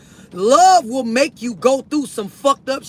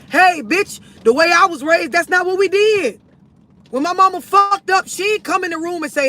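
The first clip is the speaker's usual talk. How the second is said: a raised, defiant voice with a touch of exasperation; acted avoidant partner; 6 semitones higher than usual. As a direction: play the partner brushing off the talk, pitched up.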